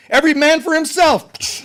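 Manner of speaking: high, loud hammed-up scramble; mock panic. Imagined panicking Jesus abandoning ship, hammed-up yell. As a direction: shout it like fleeing the boat. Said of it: "you know".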